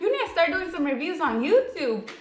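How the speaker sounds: excited. Retold or imitated. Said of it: "I'm like".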